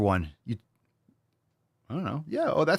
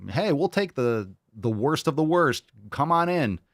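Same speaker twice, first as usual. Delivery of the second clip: slow, higher, sarcastic open-arms welcome; mock welcome; 4 semitones higher than usual. Mocking open borders as a slow sarcastic welcome. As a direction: play a naive host waving everyone in. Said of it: "It's like".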